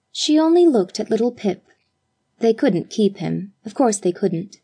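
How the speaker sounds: ordinary delivery, nothing marked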